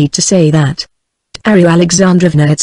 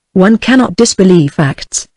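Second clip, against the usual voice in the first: FACTS given slight emphasis; stress on FACTS. A narrator's reading. Alexei answering Dolly's disbelief, emphasis on facts. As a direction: lean lightly on the word facts. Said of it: "with an emphasis on the word facts".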